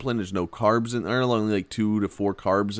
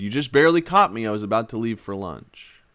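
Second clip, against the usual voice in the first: passive-aggressive. Retold or imitated. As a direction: needle them lightly through a smile. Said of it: "in a passive-aggressive way with a smile".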